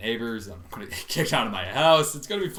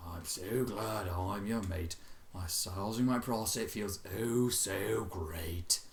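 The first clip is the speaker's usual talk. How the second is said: slow, quiet, monotone rote reading; expressionless recital; 5 semitones lower, 9 dB quieter, slower than usual. Acted. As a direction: recite it dead flat. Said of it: "He recited expressionlessly".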